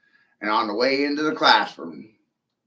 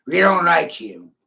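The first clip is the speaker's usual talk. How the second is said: mocking the audience; 4 semitones higher, 5 dB louder than usual. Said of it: "It confuses them why I'm fucking angry".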